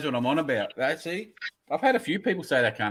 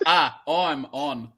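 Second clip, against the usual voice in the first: slow drawl; much slower than usual. Shown as a demonstration. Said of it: "you gotta have a".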